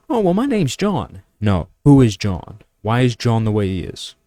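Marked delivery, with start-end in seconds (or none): 0.1-1.2 much higher, slow, naive voice; clueless guy. Retold or imitated. Mocking someone who thinks a name is an answer, high and slow. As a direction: answer like it's obvious and dumb. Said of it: "it's more than".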